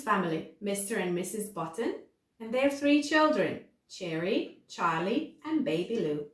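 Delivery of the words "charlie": ordinary delivery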